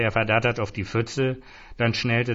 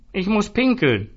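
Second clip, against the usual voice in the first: high, loud bellow; loud drunken roar; 10 semitones higher, 4 dB louder than usual. A narrator's reading. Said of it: "brüllte Zoran".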